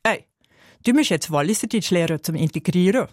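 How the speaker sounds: imitated Walliser dialect; Valais Swiss German. Best colleague urging her to integrate, in Valais dialect. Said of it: "Walliserdeutsch lernen".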